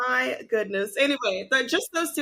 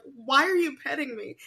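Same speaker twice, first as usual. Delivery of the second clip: laughing through the question; giggling while asking; laughing quote; 3 semitones higher than usual. Retold or imitated. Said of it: "And she's like".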